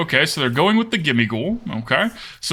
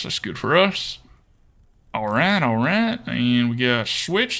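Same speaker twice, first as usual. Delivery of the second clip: put-on Texan accent. Streamer plays the next game by viewer request, Texan accent. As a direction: lay on a playful Texan accent. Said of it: "we'll do one more with the accent".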